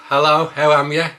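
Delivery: cheery Black Country hello; Black Country accent, loud and friendly; Black Country greeting. Shown as a demonstration. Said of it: "teach you how to talk with a Black Country accent".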